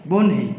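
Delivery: বহ্নি said as বন হি, ন before হ; pronounced bon-hi. Shown as a demonstration. Teacher giving students the spoken form of বহ্নি, clearly split. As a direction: say বন হি with ন first, then হি. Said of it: "উচ্চারণের ক্ষেত্রে আগে আসলো ন".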